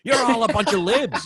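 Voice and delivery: high, loud mock yell at the crowd; hammed-up shouting at a hostile crowd; retold yelling. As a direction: imitate him yelling down the audience. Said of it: "screaming at the crowd".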